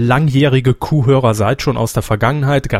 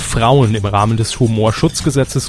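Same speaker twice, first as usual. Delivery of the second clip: formal announcement. Acted. Formal legal disclaimer read.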